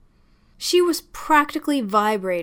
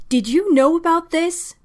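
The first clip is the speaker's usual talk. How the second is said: sharp, higher and louder accusing demand; angry demand; 8 semitones higher, 6 dB louder than usual. Acted. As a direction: fling the question at him in anger. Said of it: "and demanded".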